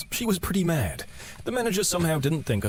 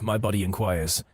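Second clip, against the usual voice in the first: ordinary talk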